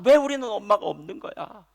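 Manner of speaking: mock angry child. Motherless child complains to his father, a mild mock tantrum. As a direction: whine it as an upset kid, not full rage. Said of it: "그래서 막 화가 나서".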